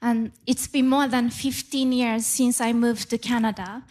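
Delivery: ordinary talk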